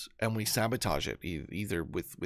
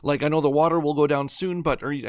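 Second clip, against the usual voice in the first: higher, louder call over the noise; rescuer yelling; 5 semitones higher, 5 dB louder than usual. Retold or imitated. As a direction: yell down from the helicopter. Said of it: "It turns to him and yells".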